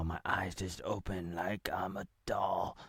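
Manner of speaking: soft whisper; ASMR whisper. Real, not acted. Vlogger whispering to viewers ASMR style. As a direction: hush it like ASMR. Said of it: "A S M R".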